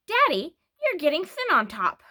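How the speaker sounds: high, loud shocked outburst; shocked cry. A narrator's reading. Beezus to her father, crying out in shock. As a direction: blurt it out in alarm. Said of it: "she cried out, shocked".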